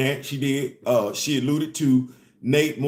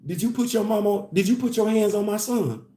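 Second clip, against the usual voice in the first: calm protective mom; 4 semitones higher than usual. Retold or imitated. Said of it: "she real calm with it".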